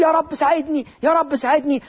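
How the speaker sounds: imitated tearful prayer; mock tearful plea. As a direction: beg for help like a desperate mother, lightly acted. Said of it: "عمالة تبكي وتقول".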